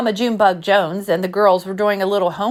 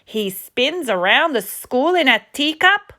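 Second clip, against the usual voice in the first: shocked; 4 semitones higher than usual. Acted. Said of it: "exclaimed the kitty boy in shock".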